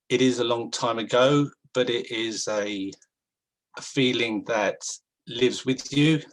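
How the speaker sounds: shaky, unsteady voice, holding back tears; wobbling voice. Real, not acted. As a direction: voice wobbling with emotion. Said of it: "I can hear my voice, um, wobbling".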